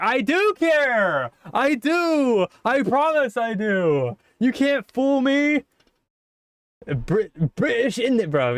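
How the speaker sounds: put-on high, slow pleading in a British accent. Monika insisting to the player that she cares, high British accent. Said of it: "I did give you a British accent".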